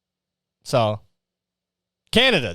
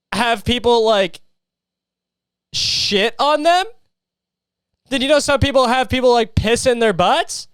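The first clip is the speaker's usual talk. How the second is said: higher, teasing did-you-know taunts; mock-incredulous questions; 4 semitones higher than usual. Real, not acted. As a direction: needle them with fake amazement. Sarcastically lecturing imagined critic.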